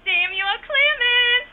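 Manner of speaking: calling out. Acted. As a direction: yell the full name across a distance. Mom calling out loudly.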